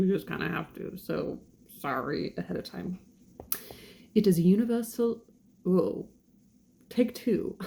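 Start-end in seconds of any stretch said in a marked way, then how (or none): 4.2-5.2 put-on light British accent reading. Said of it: "read it with a British accent".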